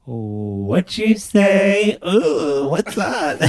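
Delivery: slow pitched robotic voice effect; robot voice filter. Real, not acted. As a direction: speak through a robot filter. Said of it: "I sound like a robot".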